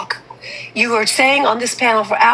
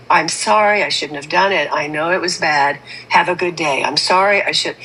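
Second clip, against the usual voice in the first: lower, flat, dead-toned sorry; mock robot apology; 5 semitones lower than usual. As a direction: mimic a rote, emotionless apology. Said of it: "to be this robot that is just".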